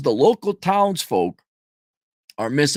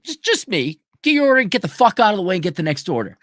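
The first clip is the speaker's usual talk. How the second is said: impatient mock order; 4 semitones higher, faster than usual.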